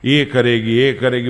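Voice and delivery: slow, flowery lover's recital; poetic recital. Acted. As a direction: recite it like a romantic poet. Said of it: "કાવ્યાત્મક ભાષામાં બોલવા માંડ્યો". (ધીમી, કાવ્યાત્મક પ્રેમભરી રજૂઆત)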